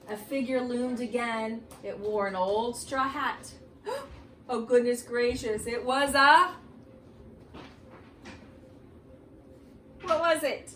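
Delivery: spooky read-aloud for the class; reading to children. Acted. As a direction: draw the kids into an eerie story. Reads Halloween book aloud.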